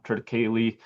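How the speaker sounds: triticale with a final ee, ending kay-lee; shown pronunciation. Shown as a demonstration. Presenter returns to the crop's name, triticale pronounced trit-i-KAY-lee. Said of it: "it is pronounced triticale".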